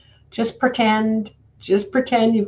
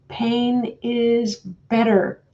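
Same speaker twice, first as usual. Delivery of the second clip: slow, light imitation of a German accent; hint of a German masseuse's accent, drawn out; mock German accent; 4 semitones higher, much slower than usual. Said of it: "in her strong German accent".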